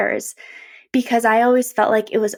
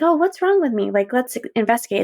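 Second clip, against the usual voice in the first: curious self-question; faster than usual. Retold or imitated. Checking in on herself kindly, with light curiosity. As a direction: wonder aloud, really wanting the answer.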